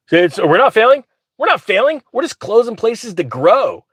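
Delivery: hammed-up executive denying failure; mock CEO. Mocking the bank CEO's excuse.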